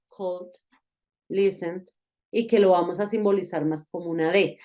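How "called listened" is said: "called" and "listened" said quietly, light final D; softer ending. Shown as a demonstration. Teacher shows when it sounds softer, gentle ending. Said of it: "va a sonar más suave".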